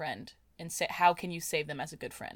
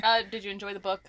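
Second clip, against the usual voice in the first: deadpan; 6 dB louder, faster than usual. Real, not acted. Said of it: "Why did I say that so deadpan?".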